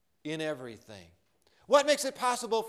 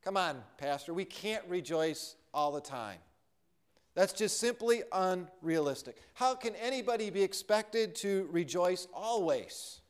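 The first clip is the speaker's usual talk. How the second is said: doubting listener; 4 dB quieter than usual. Retold or imitated. A doubter objects to the pastor, quietly unconvinced. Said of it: "some people might argue and say".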